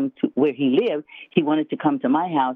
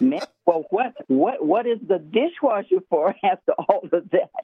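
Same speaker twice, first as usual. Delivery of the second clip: higher-pitched, puzzled little-girl imitation; little girl on television; 4 semitones higher than usual. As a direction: lightly mimic a baffled TV kid. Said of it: "I'm going like that little girl on television".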